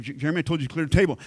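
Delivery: fast, scolding repeat of the order; wife gets on the boy for not clearing the table, snapping fast; nagging scold. Retold or imitated. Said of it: "she'd get on him".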